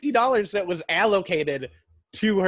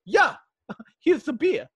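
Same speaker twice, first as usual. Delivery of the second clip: laughing voice; 9 semitones higher, 4 dB louder than usual. Retold or imitated. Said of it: "And he's like".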